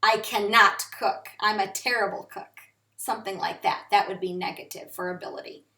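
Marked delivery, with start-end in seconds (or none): 0.0-2.5 "cannot" said with extra weight; stress on cannot. Shown as a demonstration. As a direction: lean on "cannot" to make it stronger. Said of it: "Put emphasis on that word".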